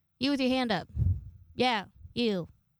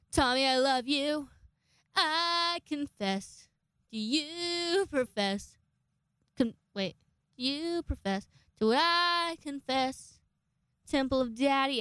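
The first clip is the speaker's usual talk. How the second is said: mock love confession; 5 semitones higher, slower than usual. Teasing a busser with mock confession.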